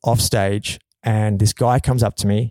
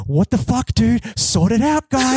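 mock angry; 9 semitones higher than usual. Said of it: "giving him just death daggers".

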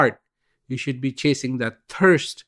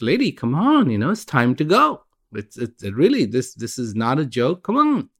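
urgent call. Acted. Rescuers urging woman again.

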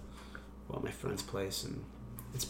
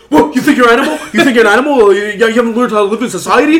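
laughing quote; 8 semitones higher, 11 dB louder than usual. Retold or imitated. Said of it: "He's like".

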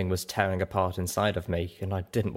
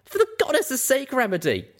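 barking angrily. A narrator's reading. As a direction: bark her name. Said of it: "I barked".

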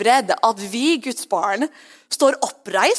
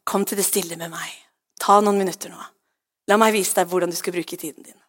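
lower, gently soothing voice; calming Holy Spirit; 3 semitones lower than usual. Acted. Holy Spirit inviting a stressed believer to rest, calming. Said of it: "Den Hellige Ånd, sier jeg".

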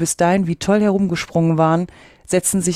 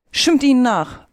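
high, louder call falling away; screeched; 6 semitones higher, 5 dB louder than usual. A narrator's reading. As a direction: read as a mild mock screech. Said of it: "kreischte der Greif".

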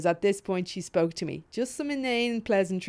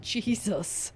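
soft, stunned oath; hushed reaction of a startled onlooker; appalled aside; 7 dB quieter than usual. Retold or imitated. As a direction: step back and say it under your breath. Venue head recoils in the retelling.

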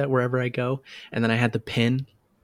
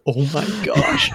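thrilled gasp; 4 semitones higher, 4 dB louder, slower than usual. Retold or imitated. Thrilled the coworker knows Monolith.

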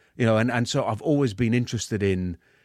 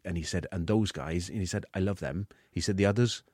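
put-on retelling in a light Welsh accent. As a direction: imitate a plain-spoken Welsh soldier. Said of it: "if you could do it in the accent".

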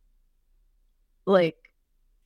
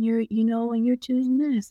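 drawn-out, mock-soothing delivery; imitated soothing voice; 3 semitones higher, slower than usual. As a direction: imitate someone lulling listeners to sleep. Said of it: "her voice is so, like, soothing".

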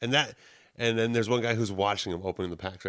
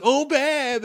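sudden mock adoration; 13 semitones higher, 6 dB louder than usual. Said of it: "then she flip flops".

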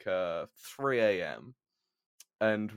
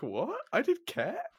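shocked disbelief. Retold or imitated. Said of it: "And they were like".

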